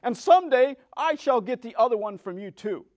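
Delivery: lightly gloating witch, high and loud; mocking witch. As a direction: taunt the girl as the witch. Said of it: "laughing at her".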